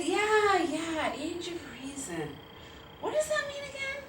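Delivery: put-on high-pitched, unsure kid; child's puzzled reply. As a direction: play a seven-year-old pretending to understand, then asking. Child self answers dad.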